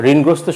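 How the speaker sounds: ঋণগ্রস্ত as "rin-grosto"; no vowel after the n of ঋণগ্রস্ত; wrong pronunciation. Shown as a demonstration. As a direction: join n to g in ঋণগ্রস্ত. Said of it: "ঋণগ্রস্ত হবে না".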